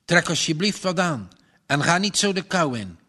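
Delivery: fast, a hint of a tremble; mildly shaky farmer to his wife; shaking voice. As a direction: urge her warmly, voice shaking slightly. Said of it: "met bevende stem".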